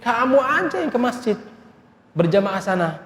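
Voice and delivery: mocking in-laws. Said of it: "sering ngejek saya ngomong begini".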